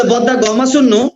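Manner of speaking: slow Chittagonian greeting, each word laid out; Chittagonian dialect. Shown as a demonstration. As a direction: say it like a man from Chittagong, slowly. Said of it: "চিটাগাংয়ের ওরা বলে".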